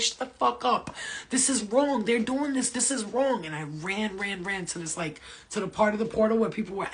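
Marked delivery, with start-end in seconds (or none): 0.0-3.5 raised, higher-pitched angry retort; yelling back. Retold or imitated. Dreamer running against the crowd, yelling back. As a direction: insist over a crowd, voice pushed up.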